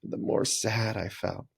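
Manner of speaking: slowed, drooping sad voice; slow sad reading. Shown as a demonstration. Teacher recalling her sad reading, slow and sad. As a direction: read it slowly and sadly. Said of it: "The sad way".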